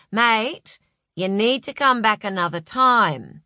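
firm warning under a matey address; definite edge. A narrator's reading. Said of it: "with a definite edge to his barbecue voice".

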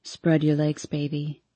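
low, soft male coo. A narrator's reading. Boyfriend coaxing his girlfriend, low soft coo. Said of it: "he coos".

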